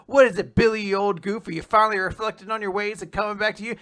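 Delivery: loud, high, quick and chummy teasing; friendly. Acted. Top answers Billy's call, friendly and teasing. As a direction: hail an old pal with playful cheer. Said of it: "being kind of friendly".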